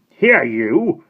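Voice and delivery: loud, sharp command to a servant; sharp order. Acted. Missus Brisket ordering Bonnie about, sharp and loud. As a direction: snap it at the girl. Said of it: "she said sharply".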